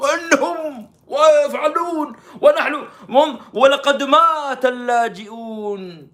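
high, loud, drawn-out mock wailing; hammed-up keening; mock lament. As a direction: stretch it into an exaggerated public lament. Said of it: "هذه اللطميات وهذه البكائيات".

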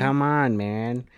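nasal Wisconsin imitation; nasally Wisconsin accent. Podcaster imitating the show's Dahmer, nasally Wisconsin accent. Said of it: "very nasally Wis".

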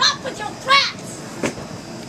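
slow, high, sharp warning; angry. Real, not acted. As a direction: bite out each word angrily. Neighbour quarrel, yelling.

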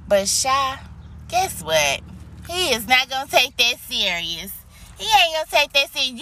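firm, emphatic warning with a lifted voice. Shown as a demonstration. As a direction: raise your voice a little and mean it. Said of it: "how to raise my voice a little bit".

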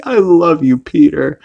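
high-pitched, tender declaration of love; imitating Lois. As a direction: put on a high wife voice for loving words. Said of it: "and she's like".

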